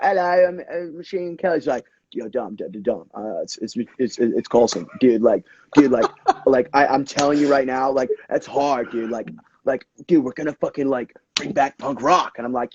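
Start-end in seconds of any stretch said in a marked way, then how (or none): 0.0-1.6 a lightly voiced mock British hello, a bit higher; a rapper imitating a singer. The rapper mimicking the singer at the door, lightly mocking. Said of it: "he did his impression of me". 2.1-12.3 a light, half-hearted take on an excited, stammering rocker; impression of the rapper. The singer imitating the rapper pitching punk rock, lightly voiced. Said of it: "that's my impression of him".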